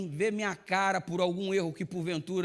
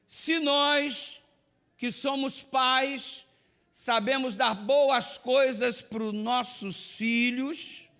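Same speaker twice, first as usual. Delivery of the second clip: slow, raised preaching read; solemn quote reading; 6 semitones higher, slower than usual. Acted. Preacher reads an Ellen White quote to the congregation, slow and raised.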